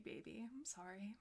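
breathless, trailing off; gasping for air between words; out of breath. Real, not acted. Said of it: "Ran out of breath there".

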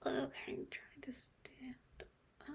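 shaky hushed whisper; nervous whisper. Acted. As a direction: barely breathe the words.

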